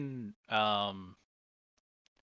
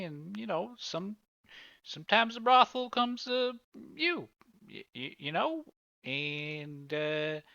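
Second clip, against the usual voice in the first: sheepish witness; 6 semitones higher than usual. Acted. Witness admits brothel visits to detective, sheepishly hesitant. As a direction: hedge around an embarrassing admission.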